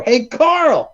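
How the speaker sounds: high loud call; loud high hey Carl; called-out quote. Retold or imitated. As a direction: call out a name sharply. Quoting American Psycho.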